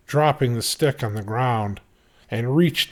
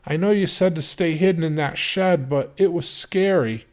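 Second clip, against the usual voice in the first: put-on little girl; 6 semitones higher than usual. A narrator's reading. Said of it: "The little girl spoke".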